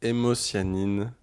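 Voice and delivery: slow repeat. Pretend. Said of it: "tu dois les répéter après moi lentement".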